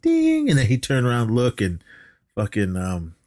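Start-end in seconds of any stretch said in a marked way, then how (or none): 0.0-0.5 drawn-out "ding" like a lift bell; imitated elevator bell. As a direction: mimic an elevator chime. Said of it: "the bell from the elevator went".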